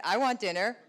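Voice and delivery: echoing the line through a laugh; mock husband copying her, laughing; parroting, laughing. Shown as a demonstration. Wife imagining husband parroting her, with a laugh. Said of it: "and my husband said".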